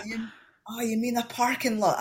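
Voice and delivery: high-pitched "oh, you mean" reaction; mock sudden realisation. Americans finally understanding the Scot, mock realisation. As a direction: imitate a listener finally catching on.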